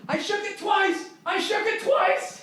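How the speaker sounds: very high, squeaky falsetto chant; high squeaky stoner squeal; mock giddy screaming. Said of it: "just screaming".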